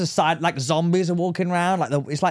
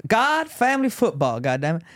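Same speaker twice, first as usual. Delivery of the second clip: put-on Southern redneck accent; 5 semitones higher than usual. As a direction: rattle off redneck values. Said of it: "you gotta talk a whole sentence".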